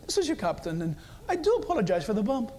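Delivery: lightly mimicked British pilot; a hint of British cabin announcement; attempted British accent. British captain apologizing to passengers for turbulence, attempted British accent. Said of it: "I can't do a British accent".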